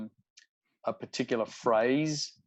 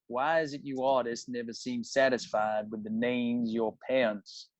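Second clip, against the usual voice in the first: Cajun accent demo. Shown as a demonstration. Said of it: "I was listening to the accent".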